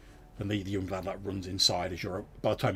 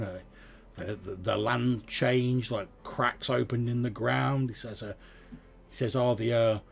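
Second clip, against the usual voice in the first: slow, grave farmer's tale; lightly voiced farmer, slow and solemn; farmer telling of old disaster; 3 dB louder than usual. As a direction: recall it like a haunted old farmer.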